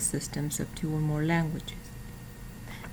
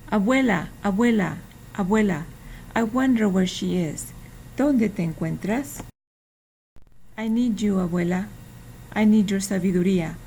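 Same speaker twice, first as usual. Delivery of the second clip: storybook reading. Acted. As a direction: read it aloud like a picture book for children. Reading a children's book aloud.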